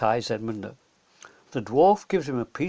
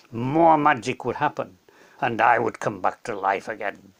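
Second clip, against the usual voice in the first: wise lion king; 2 semitones lower than usual. Acted. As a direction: explain with calm authority. Aslan explains.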